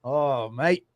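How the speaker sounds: put-on Aussie twang; hammed-up Australian accent. Shown as a demonstration. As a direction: do a playful Australian with broad vowels. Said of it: "Do your Australian".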